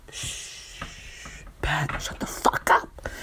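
slow whispered hushing; Joanna. Acted. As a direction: shush a boyfriend sharply under the breath. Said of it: "Joanna's like".

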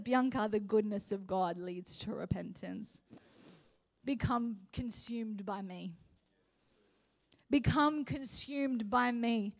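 gently quoted divine voice, slow at the end; God's gentle answer. Retold or imitated.

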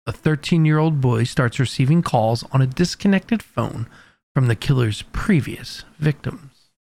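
dramatic seventies news reporter narration; 1970s TV reporter. Pretend. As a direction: read it like an old TV crime report. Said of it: "T V reporter's voice".

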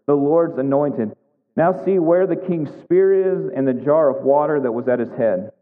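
measured read-aloud of a Bible story; expressive pulpit reading; scripture reading. A narrator's reading. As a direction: read the passage out clearly, lifting the quoted challenges.

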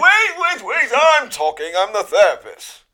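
high, loud, hammed-up interruption; bossy mock therapist. Mock therapist silencing a client, pompous high shout. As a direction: cut them off like a self-important authority.

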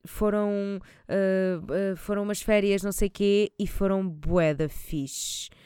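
narrator voice. Retold or imitated. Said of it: "imaginem uma voz de narrador".

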